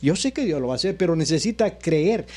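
oración predicada con cadencia ondulante; prédica con fe. Real, not acted. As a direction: proclama y ruega con fervor, frase por frase. (prédica ferviente y rítmica)

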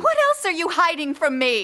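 upset, confrontational; suspicious demand. Acted. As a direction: demand the truth from him. Fiancée confronts him in quarrel.

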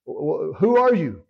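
astonished. Acted. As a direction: act out startled disbelief. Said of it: "it might be an astonishment".

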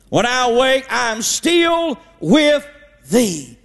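slow, lifted reading of the psalm, drawn out; scripture reading. Acted. Preacher reading Psalm 139 to the congregation in a slow, lifted reading voice. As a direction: read the verses like a hushed holy text, lingering on "How precious". Reads Psalm verses aloud.

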